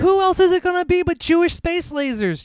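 high, mock-paranoid rant; conspiracy theorist voice. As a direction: play the crazed conspiracy nut.

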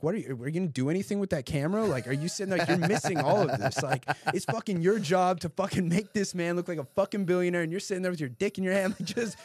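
loud, high, furious rant at the cameraman; boss ripping into him. Retold or imitated. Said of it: "rips him a new one".

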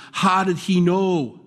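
drawn-out astonished question; amazed question. Retold or imitated. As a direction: marvel at it like the newcomer.

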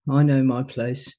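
low, slow and humble; the meek little man who knows his place. Retold or imitated. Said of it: "And the bottom one goes".

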